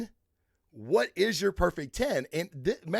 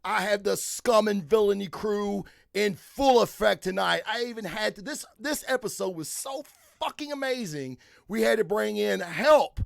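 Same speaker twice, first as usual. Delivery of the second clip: show host intro; 3 semitones higher than usual. Acted. Host welcomes listeners to the season's last episode, hyped-up intro. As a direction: kick off the show with punched-up key words.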